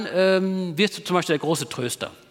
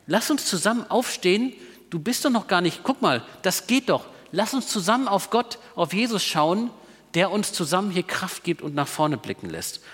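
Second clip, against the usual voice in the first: encouraging friend. Retold or imitated. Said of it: "und sagen".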